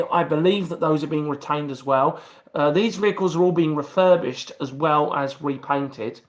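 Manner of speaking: speaking with a numb mouth after tooth extraction; numb-mouthed, slightly slurred speech. Real, not acted. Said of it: "very numb on my left-hand side".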